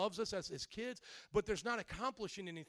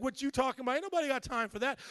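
loud, higher, rapid-fire brush-off; God's mock dismissal; 5 semitones higher, 6 dB louder, much faster than usual. Preacher acts God unimpressed by prayers, loud dismissal. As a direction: rattle off a comic, incredulous rebuff. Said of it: "'Cause God is, like, saying".

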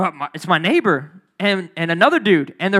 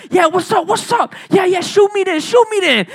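taunting shout; 10 semitones higher, 5 dB louder than usual. Retold or imitated. Girlfriend taunting the gunman.

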